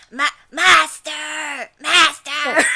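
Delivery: high-ish drawn-out whine; Clear. Acted. Showing co-reader Clear's whiny call to master. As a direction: cry it out whiny, stretching the end. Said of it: "he's very whiny".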